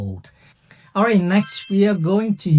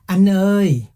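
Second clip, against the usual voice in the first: calling out; 5 semitones higher, 4 dB louder than usual. Retold or imitated. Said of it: "People may just say".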